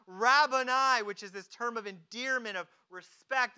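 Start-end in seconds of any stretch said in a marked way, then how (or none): 0.1-1.0 loud acted exclamation; crying out. Mary falls down before Jesus, crying out. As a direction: cry it out as a worshiping Mary. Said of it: "she cries out".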